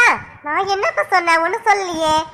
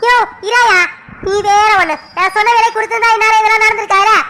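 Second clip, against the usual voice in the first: raised, fed-up shout; exasperated outburst; 2 semitones higher than usual. Acted. Customer fed up with the shopkeeper, shouting. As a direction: throw up your hands and snap.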